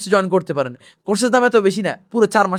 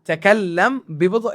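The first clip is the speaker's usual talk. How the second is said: slow demo; slower than usual. Shown as a demonstration. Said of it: "এটা আমরা ফুসহাতে বলে থাকি".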